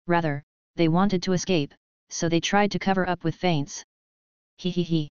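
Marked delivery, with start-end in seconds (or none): 4.6-5.1 giggling. A narrator's reading. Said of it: "Mei Ling giggled".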